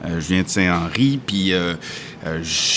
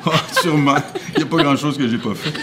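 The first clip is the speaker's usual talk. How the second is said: laughing through the words, pitched up; 7 semitones higher, faster than usual. Real, not acted. Guest laughs off a teasing question, laughing. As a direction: chuckle out a cheeky boast. Joking about trying anything.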